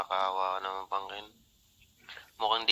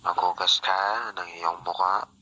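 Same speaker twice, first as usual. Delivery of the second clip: Big Brother voice; 4 semitones lower, 3 dB louder than usual. Retold or imitated. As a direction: intone it like the house voice. Mimicking the show host's instructions. (boses ni Big Brother)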